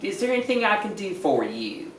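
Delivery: imitating a Texas lady, slowed on what's wrong; Texas sweetheart. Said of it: "in Texas they call everybody sweetheart".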